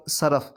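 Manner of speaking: صرف with a short a in both syllables; pronounced saraf. Shown as a demonstration. Teacher contrasting look-alike words, pronouncing saraf. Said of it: "پڑھنے میں بظاہر ایک جیسا لگ رہا ہے".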